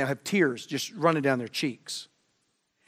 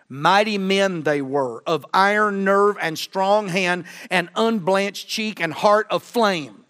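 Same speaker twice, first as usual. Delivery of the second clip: slow solemn quotation; slower than usual. Acted. Quoting the bishop's stirring words.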